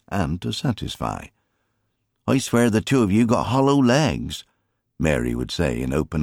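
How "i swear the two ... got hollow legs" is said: fond mother's voice. A narrator's reading. Mary's fond exclamation voiced.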